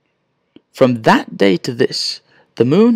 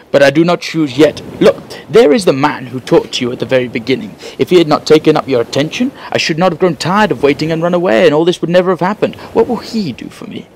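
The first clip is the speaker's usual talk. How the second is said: lightly raised, bargaining crab voice; a hint of a sulky crab, rising higher; 4 semitones higher than usual. Stubborn crab Pau Amma bargaining with the magician, mildly raised voice.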